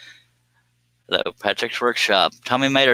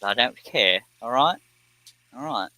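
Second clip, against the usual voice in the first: put-on jokey British accent with a lifted question; 2 semitones higher than usual. Streamer shrugging off viewers' laughter, put-on British accent. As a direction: toss it off in mock British.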